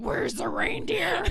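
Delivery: very high, loud, slow wail; crazy voice. Retold or imitated. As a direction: howl it like a frantic mom. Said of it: "really sort of crazy voice".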